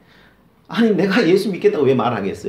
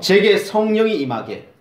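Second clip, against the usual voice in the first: prayer with a laugh; 5 semitones higher, 6 dB louder than usual. Shown as a demonstration. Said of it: "한번 따라해 보실까요?".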